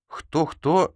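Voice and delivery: high-pitched, baffled query; puzzled question. A narrator's reading. Vasily does not understand the rider's word, puzzled. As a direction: ask as if you misheard. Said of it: "не понял Василий".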